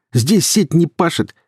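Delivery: high, stretched-out jeer; slow, forceful thug taunt; barking. A narrator's reading. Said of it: "гаркнул Илья".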